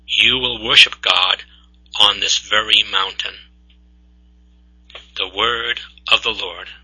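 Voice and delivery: measured, solemn lector reading; scripture reading. Acted. Lector to the congregation, solemn scripture reading.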